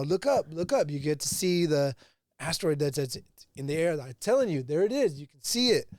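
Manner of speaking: lightly acted excitement, voice lifting on key words; retold ecstatic urging. Character telling everybody in traffic to look up, mildly mock-ecstatic. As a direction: imitate someone excitedly pointing it out. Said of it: "he's all ecstatic about it".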